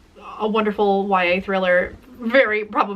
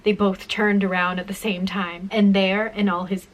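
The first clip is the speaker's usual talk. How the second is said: dramatic reading; 2 semitones lower than usual. Shown as a demonstration. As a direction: read the ending like a creepy reveal. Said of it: "The last line of Photos is".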